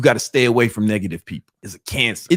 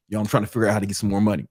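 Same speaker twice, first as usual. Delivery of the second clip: fast, softer, matter-of-fact; resolved; 3 semitones lower, 5 dB quieter, much faster than usual. Retold or imitated. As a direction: rattle it off like a working plan. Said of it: "Which one of those two people".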